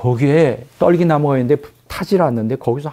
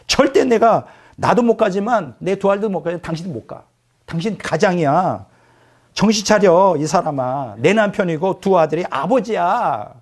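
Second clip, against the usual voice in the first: higher, scolding; wife yelling; 4 semitones higher than usual. Retold or imitated. Wife telling Moses to wake up, raised scolding voice. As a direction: snap at him to come to his senses. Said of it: "소리 지르고 이제 싸움 붙었어".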